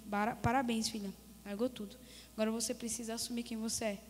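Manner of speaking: low, very soft retold voice; sereno. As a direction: speak gently and low, almost confiding. God congratulating her, retold. (voz baixa, mansa e grave)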